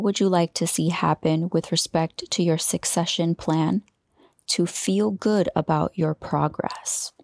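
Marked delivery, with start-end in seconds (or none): 4.5-7.1 whisper. Real, not acted. Heavy question, whispered.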